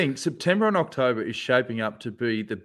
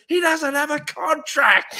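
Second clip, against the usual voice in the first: mocking shout; 10 semitones higher, slower than usual. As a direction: yell it out like a gleeful taunt. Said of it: "he sit up and he goes".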